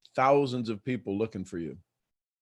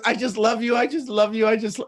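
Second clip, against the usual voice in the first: high, loud, gushing rush of affection; Amy; 8 semitones higher, 5 dB louder than usual. Retold or imitated. Woman calling in a panic to her coach friend, imitated high and loud. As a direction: imitate an excitable friend, pitched up and repeating. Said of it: "that's how she talks".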